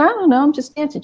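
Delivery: put-on high, bewildered young girl; girl answering grandma's scolding, high and innocent.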